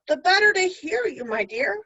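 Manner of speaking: high, loud teasing answer; sly wolf. Acted. Wolf disguised as Granny teasing the girl, high and sly. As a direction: toy with her slyly.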